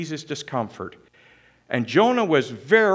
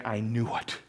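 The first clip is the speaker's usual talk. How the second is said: despairing Jonah; 5 semitones lower than usual. Acted. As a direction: let the words fall away in despair. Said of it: "And Jonah is saying".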